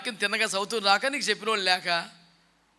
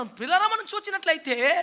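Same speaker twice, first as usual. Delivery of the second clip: high-pitched mock of a pastor's catchphrase; 8 semitones higher, 5 dB louder than usual. Preacher mocking a shallow pastor's stock phrase, high-pitched. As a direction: ape the empty preacher higher. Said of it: "చిరాకు వచ్చేసింది".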